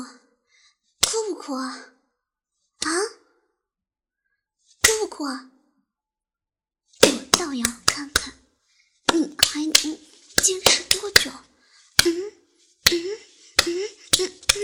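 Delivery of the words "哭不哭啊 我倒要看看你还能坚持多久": loud taunting. Acted.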